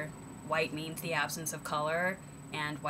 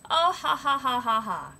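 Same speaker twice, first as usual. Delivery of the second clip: high, loud fake laugh; mocking ha ha of dismissive people; mock laughter; 8 semitones higher, 8 dB louder than usual.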